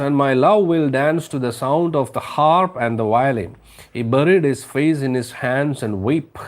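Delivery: slow, lilting storybook read-aloud; slow story reading. Acted. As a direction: read it slowly, savouring each phrase. (പതുക്കെ കഥ വായന)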